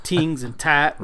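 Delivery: "Tings and tat" with th turned into a hard t, slowed down; "Tings" and "tat" in a slow, jokey Irish accent. Shown as a demonstration. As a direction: say "Tings and tat" dropping the th sound, mock Irish. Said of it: "The key is to say things like tings".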